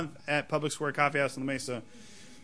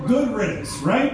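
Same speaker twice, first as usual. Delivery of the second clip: smug punchline; 7 semitones higher, 4 dB louder, slower than usual. Acted. Harambe punchline on stage.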